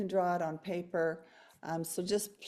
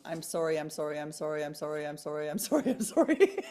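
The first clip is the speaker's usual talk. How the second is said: playful run-on that cracks up at the end; playful rapid repetition; 3 semitones lower than usual. Pretend. Rattles repeats jokingly, breaks up laughing.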